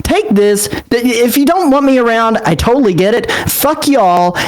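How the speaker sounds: defiant acted outburst before storming out; dramatic fit. Character tells the group off before leaving, dramatic fit. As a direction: argue back heatedly, pitch climbing. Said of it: "his most dramatic fit yet".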